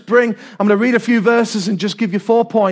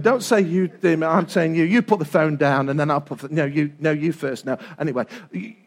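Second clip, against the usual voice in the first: mock phone goodbye; 7 semitones lower, 6 dB quieter than usual.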